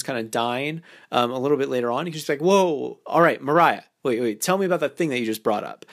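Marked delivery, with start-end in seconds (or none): 2.4-5.9 energetic nickname. Shown as a demonstration. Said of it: "your energy combined with that".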